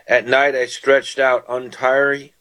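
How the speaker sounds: slow, deliberate reading of "cried" with weight; scripture reading. Acted. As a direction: read the psalm aloud slowly to the listeners. Reads psalm verses.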